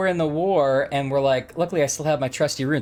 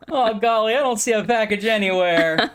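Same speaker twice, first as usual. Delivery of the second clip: put-on wholesome 1950s kid; 5 semitones higher than usual. Voicing Ernie searching.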